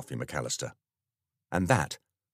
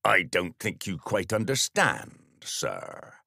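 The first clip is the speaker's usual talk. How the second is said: firm sergeant; slower than usual. Acted. Sergeant firmly corrects the vicar.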